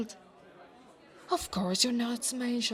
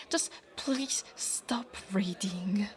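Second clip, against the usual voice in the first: pleading; slower than usual. Acted. Begging them to stop reading.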